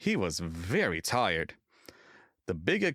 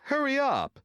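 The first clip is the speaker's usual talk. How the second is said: impatient coaches; 4 dB louder than usual. A narrator's reading. Coaches urging Thomas.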